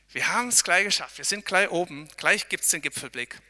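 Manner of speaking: loud, encouraging call. Real, not acted. Pastor calling encouragement to hikers, loudly. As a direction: shout encouragement up the slope.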